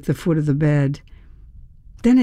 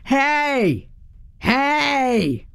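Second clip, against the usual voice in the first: deep growly yell; 10 semitones higher than usual. A narrator's reading. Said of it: "in my deepest, growliest voice".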